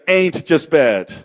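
slow, drawn-out Southern American twang; a playful Southern American drawl on the phrase; Southern American accent. Pretend. Preacher jokes to the congregation in a Southern American accent. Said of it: "let me just say with Southern American accent".

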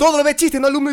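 mocking teacher. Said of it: "teacher quote".

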